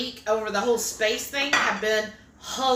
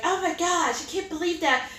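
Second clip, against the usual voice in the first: mock freak-out; 6 semitones higher than usual. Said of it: "freaking out".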